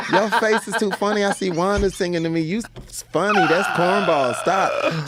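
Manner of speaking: high, laughing put-on girl voice; girl's teasing voice. Girl laughing off his serenade, high teasing voice. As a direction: tease him like a girl brushing him off. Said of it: "And the girl be like".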